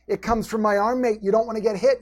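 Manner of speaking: lightly imitated Irish accent; badly faked Irish lilt for a quote; horrible Irish accent. Trainer quoting the fighter's answer about his punching power, in a bad Irish accent. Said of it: "I'm doing a horrible Irish accent".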